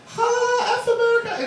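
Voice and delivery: very high, loud mock TV militant; mock angry foreigner. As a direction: imitate an upset protester, throaty as if throwing up. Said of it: "sounds like they're throwing up in their own mouth".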